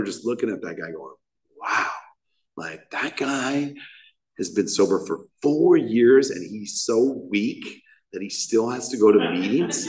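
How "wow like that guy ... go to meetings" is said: slow, sneering mock of his younger self; smug judgmental self. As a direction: look down on the guy, drawn out.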